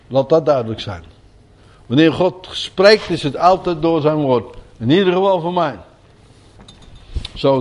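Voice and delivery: ordinary delivery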